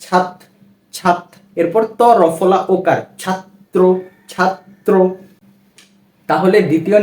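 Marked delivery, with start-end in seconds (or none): 0.0-1.2 ছাত cut off on a clear ত; extra ত sound. Shown as a demonstration. Teacher showing the hidden extra ত, ছাত said separately. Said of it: "মনে হয় যে এখানে আরো একটি ত রয়েছে". 3.2-4.9 ছাত্র split as ছাত-ত্র; doubled ত. Shown as a demonstration. Teacher demonstrating the spelling's sound, ছাত্র with doubled ত. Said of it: "মনে হয় যে এখানে আরো একটি ত রয়েছে".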